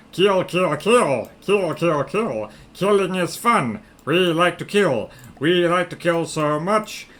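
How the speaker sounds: gleeful baddie chant; sneering panto villain. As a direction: gloat like a cartoon villain.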